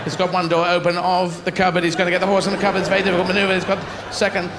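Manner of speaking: hushed-then-rising play-by-play; mock sports commentary. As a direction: parody equestrian commentator calling it live. Mock live horse event commentary.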